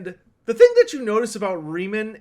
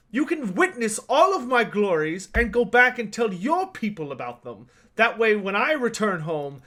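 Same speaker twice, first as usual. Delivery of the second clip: put-on proud young knight. Game master plays young knight Riemann.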